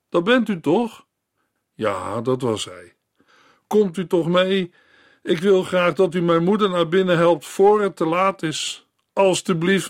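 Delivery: put-on child imploring the minister; pleading girl. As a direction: beg him before it's too late. Girl voiced by reader.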